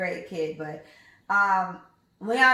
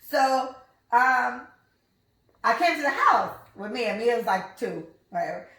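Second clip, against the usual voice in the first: ordinary talk, nothing marked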